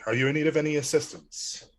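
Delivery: lightly heroic and noble. Acted. Ravi's player offering help to the stranger in a lightly noble voice. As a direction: stand tall and offer help. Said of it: "He tries to stand all heroic and noble".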